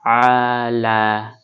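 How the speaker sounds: আলা with আ pressed from mid-throat and drawn long; throat ayn. Shown as a demonstration. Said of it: "গলাটা চেপে পড়তে হবে আইনটা". (গলা চেপে আইন উচ্চারণ করে টেনে)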